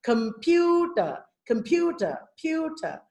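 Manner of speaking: "computer" with a big, clear "pu"; teaching demo leaning on "pu" in "computer"; exaggerated stressed syllable. Shown as a demonstration. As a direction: mouth the middle of "computer" widely. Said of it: "it uses larger facial movements".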